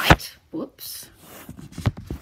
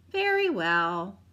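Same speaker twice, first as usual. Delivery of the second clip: whispered; 4 dB louder, slower than usual. Acted. Grandma agrees, reluctant.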